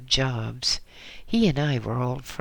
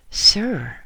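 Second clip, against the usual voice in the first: shaky, nervous "Sir"; quavering voice; 8 semitones higher, 7 dB louder than usual. A narrator's reading. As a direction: call out nervously, voice wavering. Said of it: "in a quavering voice".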